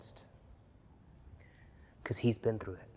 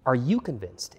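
pressing louder repeat with weight on you; urgent repeat; 3 dB louder than usual. Real, not acted. Preacher pressing the question on the congregation, louder.

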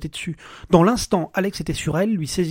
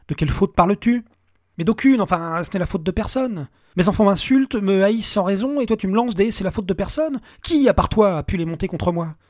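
angry accusation; 4 semitones higher, 5 dB louder than usual. Acted. Alex accusing his wife.

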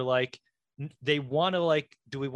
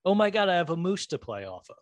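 put-on higher, bubbling giddy glee like a kid; giddy little child; 7 semitones higher, 3 dB louder, faster than usual. Co-host imitating an actor thrilled by a moose head, giddy. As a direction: squeal it like a child with a new toy. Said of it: "like a giddy little child".

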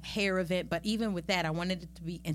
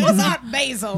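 laughing; 7 semitones higher, 13 dB louder than usual. Real, not acted. Laughing repeat of question.

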